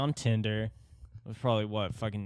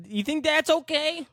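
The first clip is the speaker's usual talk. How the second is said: higher-pitched, louder outraged parody, laughing; mock ranting short man; 5 dB louder than usual. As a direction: ham up the furious little man.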